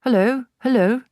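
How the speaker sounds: high, loud parrot call. A narrator's reading. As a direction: shout down the chimney like a bird. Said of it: "the bird called down".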